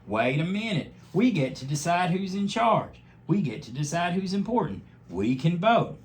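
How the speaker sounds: rally the animals with the idea; the dog urging the crowd to vote; Mister Paws. A narrator's reading. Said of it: "said Mister Paws".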